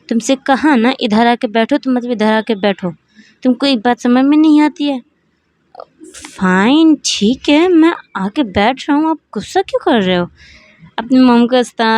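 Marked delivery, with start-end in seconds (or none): 0.1-5.0 a mother's rising scolding, ending higher; angry. Acted. Mother orders son to sit down, angry and impatient. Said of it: "गुस्से में बोलती हैं". 6.2-10.3 higher, exasperated fine, then a fast complaint; exasperated giving in. Acted. Son gives in to his angry mother, exasperated and higher.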